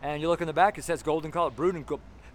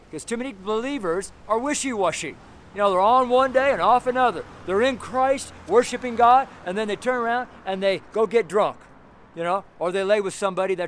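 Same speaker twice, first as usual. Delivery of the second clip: louder, higher, real heat; worked-up preacher raising his voice; fired-up preaching; 4 semitones higher, 5 dB louder than usual. Real, not acted. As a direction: preach it hot and loud. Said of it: "Sorry I'm talking so loud".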